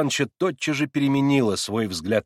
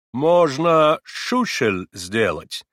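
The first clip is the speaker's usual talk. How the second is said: slow, louder comforting German; kind German accent; 3 semitones higher, 6 dB louder, much slower than usual. A narrator's reading. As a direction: soothe him in broken Russian. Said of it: "желая хоть чем-нибудь утешить старика".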